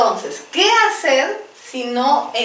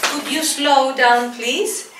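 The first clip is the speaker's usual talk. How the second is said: slow model phrase; slower than usual. Shown as a demonstration. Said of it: "También".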